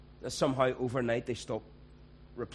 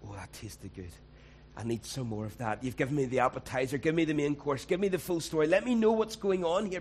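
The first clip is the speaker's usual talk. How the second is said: craving more gossip; 4 semitones higher, 5 dB louder than usual. Retold or imitated. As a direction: hungrily push for the full story, getting louder each line. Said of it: "and go".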